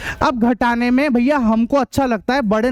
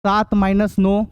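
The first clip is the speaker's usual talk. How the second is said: slow, spaced-out reading of sums; measured classroom dictation, term by term; 3 semitones lower, slower than usual. Real, not acted. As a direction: dictate each term slowly for students to copy. Teacher dictates example sums to class.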